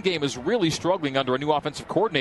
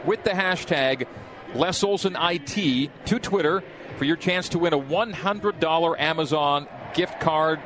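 ad read; 2 semitones higher than usual. Acted. Reads sponsor promo on air.

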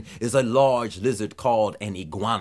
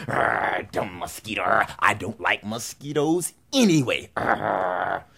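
grumbling iguana; 4 semitones lower, slower than usual. Acted.

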